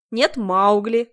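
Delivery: slow, loud teasing drawl; mock her; guard jeering at the woman in the cage. A narrator's reading. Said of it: "зубоскалил покемон".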